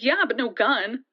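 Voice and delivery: slow, unbending refusal; firm. Retold or imitated. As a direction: lay down the condition slowly. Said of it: "I was damn firm on that".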